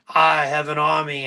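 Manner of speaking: booming villain line; triumphant stage shout to a cheering crowd; shouting Loki. Retold or imitated. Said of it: "he comes out and he's like".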